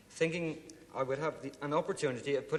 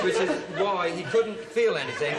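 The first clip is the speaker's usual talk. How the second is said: laughing; 5 semitones higher, 8 dB louder than usual. Real, not acted. Contestant laughing at his own card.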